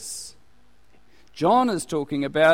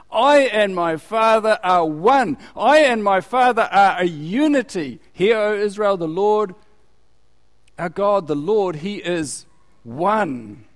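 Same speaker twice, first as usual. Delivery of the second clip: proclaiming loudly; 4 semitones higher, 5 dB louder than usual. Acted. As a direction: declare it to the whole crowd.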